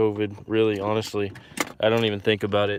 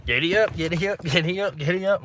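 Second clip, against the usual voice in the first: high, loud cowboy holler urging the horse on; giddy up call; 8 semitones higher, 3 dB louder than usual. Retold or imitated. Riding his horse in a Western, high giddy-up holler. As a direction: whoop it up like riding full throttle. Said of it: "And it's like".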